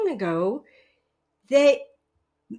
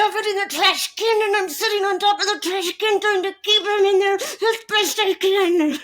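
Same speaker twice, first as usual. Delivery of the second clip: higher, louder lightly voiced man describing anger; imitating the men; 6 semitones higher, 4 dB louder than usual. Men at the microphone describing anger, lightly mocked. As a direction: play the men at the microphone, hammed up a little. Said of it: "this is what they would describe as".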